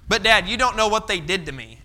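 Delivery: whiny son protest. Retold or imitated. Son arguing with dad.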